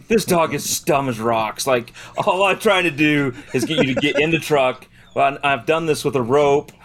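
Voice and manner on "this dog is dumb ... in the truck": frustrated rant. Retold or imitated. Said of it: "I was so frustrated".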